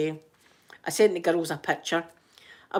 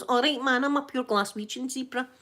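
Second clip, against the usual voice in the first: lightly voiced, higher-pitched toy zebra; Glaswegian zebra; 5 semitones higher than usual. Toy zebra introducing himself in a game, Glaswegian zebra. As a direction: play a cocky wee zebra with Glaswegian patter. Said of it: "Glaswegian zebra comes in and he goes".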